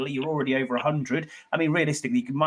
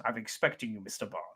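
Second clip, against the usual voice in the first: villain voice; 5 semitones lower, 10 dB quieter than usual. Acted. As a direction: purr it like a Bond villain. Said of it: "where is your villain voice?".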